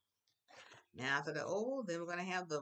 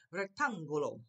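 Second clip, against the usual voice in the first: "Rectángulo" with a firm push on TÁN; stress on accented syllable; 5 dB louder than usual. Shown as a demonstration. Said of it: "I know to go up".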